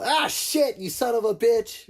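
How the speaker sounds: mock angry outburst; gamer cursing. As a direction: swear at the screen after a loss. Trash talk playing games.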